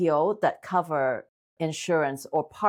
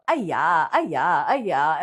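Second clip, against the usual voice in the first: put-on Asian accent; much slower than usual. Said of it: "Asian accent".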